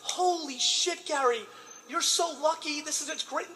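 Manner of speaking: mock gushing high school friends; mocking old friends. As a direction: squeal it like an impressed classmate. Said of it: "they're like".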